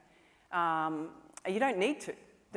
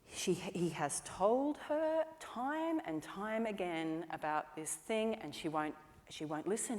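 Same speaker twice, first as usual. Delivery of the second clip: building indignation; 4 dB quieter, slower than usual. Retold or imitated. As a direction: wind a child up with slow, simmering indignation. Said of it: "I started getting angry and angry".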